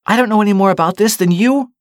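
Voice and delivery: loud, high call to someone leaving; calling after. A narrator's reading. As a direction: raise your voice after someone walking away. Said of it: "Ernie called after him".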